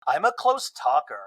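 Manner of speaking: lightly voiced, slow and sure; a hint of Monica explaining herself; Monica's defence, mild. Monica defends herself to Lisa, slow and sure. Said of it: "you get right in my face like this".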